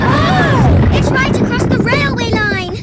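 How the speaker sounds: a sudden shocked "Oh!"; startled cry. Acted. Girl sees the landslide block the line, shocked cry. Rocks crash across the line.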